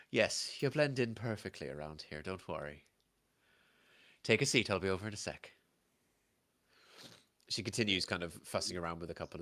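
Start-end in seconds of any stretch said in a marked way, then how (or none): 0.1-5.5 friendly barmaid with an Irish lilt; Irish-accented tavern hostess. Acted. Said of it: "I don't do Irish".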